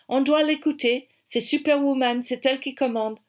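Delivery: put-on high, loud British-accented agreement; emphatic British-accented French. A narrator's reading. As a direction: back her up as an eager Englishman. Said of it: "avec son accent british".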